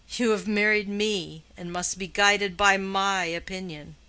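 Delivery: husband dictating to his wife, imperious. Acted. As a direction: lay down the law to her. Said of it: "he added in his lowest imperious tone".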